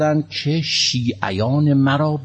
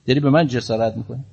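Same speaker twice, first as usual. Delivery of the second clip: threatening question; 4 semitones higher than usual. Retold or imitated. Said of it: "گفت".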